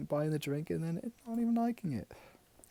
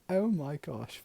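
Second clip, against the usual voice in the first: voiced, higher-pitched mock shock; scandalized; 4 semitones higher than usual. Aghast at what mum is doing, scandalized. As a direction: say it aloud, aghast. Same reaction, now voiced.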